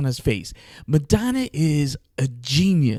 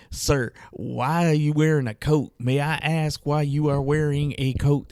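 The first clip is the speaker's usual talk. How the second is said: reading-aloud voice. Retold or imitated. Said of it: "like she's reading something".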